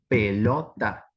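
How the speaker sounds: "pelota" split into pe - lo - ta, with gaps between; syllable by syllable. Shown as a demonstration. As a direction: segment "pelota" into three separate syllables. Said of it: "la segmentación por ahí está más tratada en el hecho silábico".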